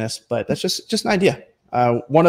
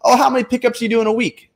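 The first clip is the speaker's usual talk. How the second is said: savvy relative; 9 semitones higher, faster than usual. Retold or imitated. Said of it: "someone who is kind of business savvy in your family goes".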